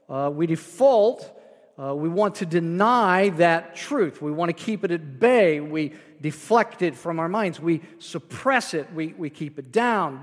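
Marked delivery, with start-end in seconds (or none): none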